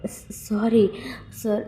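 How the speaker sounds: whispered, stammering apology; timid whisper. Acted. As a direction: breathe the sorry out with no voice. Wing bows head, apologizes.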